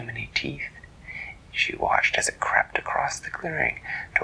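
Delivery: whispered, soft storytelling; hushed suspense narration. A narrator's reading. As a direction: draw them in with a hushed, secret tone.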